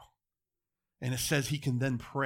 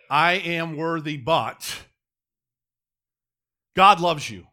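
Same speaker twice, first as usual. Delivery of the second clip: mock doubtful self-talk; 2 semitones higher, 9 dB louder, slower than usual. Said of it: "without saying if or but".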